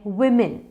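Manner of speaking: वुमेन as "wim-in"; short i in the first syllable of वुमेन; correct pronunciation. Shown as a demonstration. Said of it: "इसका pronunciation है". (वुमेन को "विमिन" बोलें)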